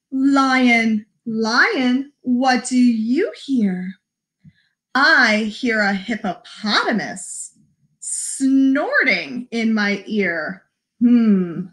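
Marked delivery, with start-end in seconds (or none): 0.1-10.6 slow, lilting story reading; picture-book read-aloud. Acted. Librarian reading Polar Bear to children, slow lilting read-aloud. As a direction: read it slowly with singsong emphasis.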